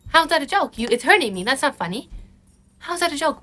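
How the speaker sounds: high, acted hurt confrontation; indignant challenge. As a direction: call out a partner's so-called joke. Acts confronting a joking partner.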